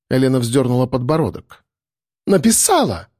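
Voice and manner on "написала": high indignant squeal; shriek. A narrator's reading. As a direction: squeal it in outrage. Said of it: "взвизгнула Таис".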